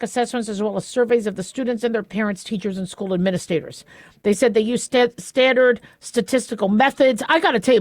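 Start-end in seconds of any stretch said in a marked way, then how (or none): 4.2-7.2 "statistical" with a slushy lisped s, stumbling on "sta-"; lisped s in "standard statistical". Real, not acted. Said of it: "this article is killing me with the S's".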